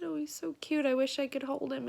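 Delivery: a touch of longing over the newborn; retold tenderness. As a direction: gently retell a mother's adoring words. Retold first words about baby.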